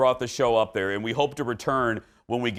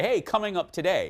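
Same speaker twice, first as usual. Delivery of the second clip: imitating his promo tease; 4 semitones higher than usual. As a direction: replay his teaser voice casually. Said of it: "the little tease beforehand where I say".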